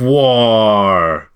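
drawn-out mock girl swoon; lightly put-on girl's swooning noise. Co-host mimicking a female fan's swoon, mock girl voice. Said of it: "here's my impression ... That's my girl voice".

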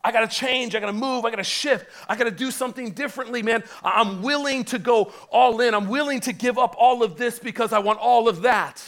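urgent resolve. Retold or imitated. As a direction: plead it with rising urgency. Voicing a convicted believer's resolve.

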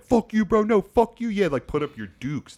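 high, loud retold shouting match; two guys squaring up to fight; imitated brawl yelling; mock angry yelling. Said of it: "they yell at each other".

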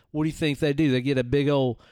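lightly put-on country redneck musing; a hick wondering aloud about didgeridoos; redneck character. Redneck asking his buddy about Australian didgeridoos.

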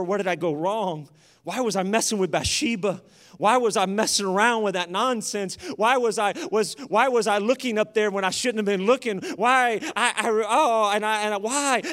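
mildly anguished self-questioning, building to stammering; acted self-reproach. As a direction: act out a father berating himself. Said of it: "he's beating himself up".

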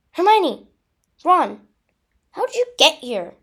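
high, loud relieved cry. A narrator's reading. Girl finding her friends behind her, relieved. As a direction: call out, delighted to see friends.

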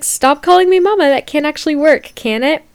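high and loud, half laughing; exasperated plea. Retold or imitated. Retelling her reply to the Tinder guy, high loud plea. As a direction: beg him to stop, loudly. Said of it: "And I'm like".

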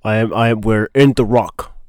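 put-on lightly done Scottish Connery accent, low-key; a hint of Connery in The Rock; Sean Connery impression. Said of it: "that's my favorite".

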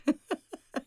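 short, high chuckle; light closing laugh; real laugh. Real, not acted. Guest wrapping up her contact details, light high laugh.

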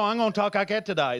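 quick put-on Southern American; Southern American accent. Comedian waking up choosing his voice, Southern American accent. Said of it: "talking in a Southern American accent".

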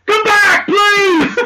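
loud high call after someone leaving. Real, not acted. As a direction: shout it after them to come back. Calling after departing guest.

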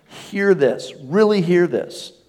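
high, loud call to hear; mock herald's shout, pitched high; proclaiming shout. Shown as a demonstration. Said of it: "it's a shout".

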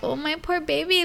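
high, tender cooing sympathy; retold pity. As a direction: coo with pity for your little one. Mother pities her upset child.

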